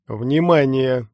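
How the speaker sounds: loud, slow automated alert; hoarse mechanical voice. Acted. Hidden speaker startles the hero, hoarse mechanical voice. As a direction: machine announcer calling for attention. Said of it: "хриплый механический голос".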